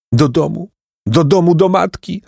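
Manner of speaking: put-on high, plaintive boy's wail. A narrator's reading. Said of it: "zawodził Placek". (wysokie, żałosne zawodzenie)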